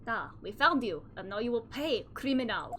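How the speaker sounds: lightly hammed-up Russian detective; bad Russian accent. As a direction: attempt a clumsy Russian accent. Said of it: "Yeah, bad accents".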